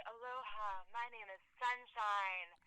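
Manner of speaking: slow, soft hippie drawl; dreamy drawn-out hippie introduction. Retold or imitated. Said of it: "And they say".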